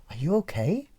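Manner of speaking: gentle, caring question; concerned. Acted. Someone in a state of Adam checking on the person, concerned. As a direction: soften into acted concern.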